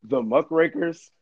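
broken-up call audio; words cutting out over the phone; bad connection. Real, not acted. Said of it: "You're saying words, but you're breaking up".

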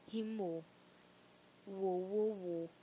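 loud, low hype ad-lib; rapper hype ad-lib. Acted. Celebrating her rhyme, loud rapper ad-libs.

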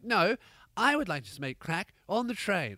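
hammed-up English accent, defiant. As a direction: refuse primly in a put-on English accent. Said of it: "she has an English accent".

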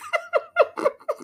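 a sudden high burst of laughter; a real high-pitched laugh. Real, not acted. Cracking up at the clip.

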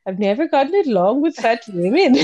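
lightly attempted Scandinavian accent. Co-host quoting the mystery's fiancé, rough Scandinavian accent. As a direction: have a go at a Scandinavian accent, amused. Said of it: "anything but Scandinavian".

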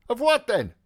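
a breezy, careless question; Mulligan's voice. Acted.

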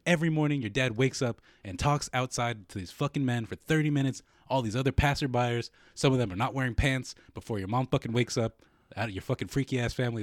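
emphatic mock tirade; retold roasting. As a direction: re-enact an insult barrage without stopping. Re-enacts bombing on her.

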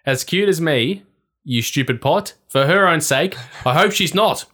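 a hint of a spiteful witch; scornful witch. Witch threatens the rival.

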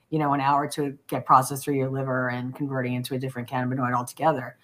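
window down on highway. Real, not acted. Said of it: "my windows are open".

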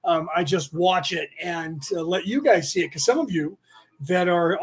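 ordinary delivery

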